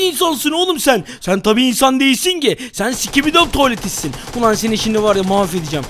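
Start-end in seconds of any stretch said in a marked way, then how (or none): 4.4-5.8 lower, gruff mock tough-guy threat. Player threatening the toilet monster, lower mock growl. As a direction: growl it like a hammed-up hero.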